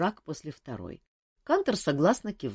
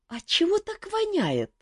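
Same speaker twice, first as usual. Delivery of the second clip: put-on much higher, squeamish young voice; disgusted boy. A narrator's reading. Boy wincing at the stink of the liquor, high and squeamish. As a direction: wrinkle your nose at the smell. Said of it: "сморщил нос Мафей".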